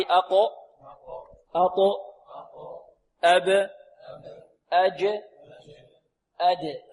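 each syllable alone with an echoing release; teacher's model for repeating; qalqala drill. Shown as a demonstration. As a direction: bounce the final consonant in أقو، أطو، أب، أج، أد. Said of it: "حروف قلقلة قطب جد".

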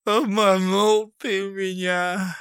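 slow, high weepy reproach; tearful. A narrator's reading. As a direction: reproach him through tears. Crying Fityulka.

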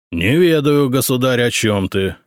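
ordinary delivery

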